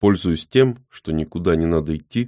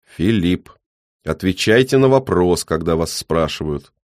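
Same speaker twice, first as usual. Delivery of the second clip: put-on stern old man. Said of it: "металлические нотки".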